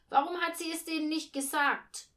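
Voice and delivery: put-on high, loud child's objection; indignant challenge. A narrator's reading. Boy contradicts mother about Maria, indignant and loud. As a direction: protest loudly, pitched well up.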